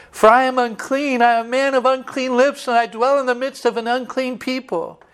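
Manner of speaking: a preacher voicing Isaiah's woe; anguished confession. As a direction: voice lifted high in lament. Isaiah's confession before God.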